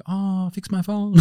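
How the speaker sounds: mock Asian accent, slow and high; imitating an Asian accent, slow. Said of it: "that thing that I just did with the Asian accent".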